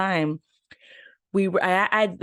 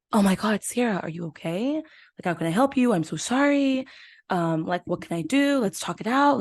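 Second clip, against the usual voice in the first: higher, fussing, mock worried boyfriend voice; attentive boyfriend; 4 semitones higher than usual. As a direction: play the overly caring guy, eager to help. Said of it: "so attentive".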